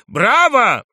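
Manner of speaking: high, full-voiced bravo. A narrator's reading. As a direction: cheer it out at the top of the voice. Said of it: "кричали".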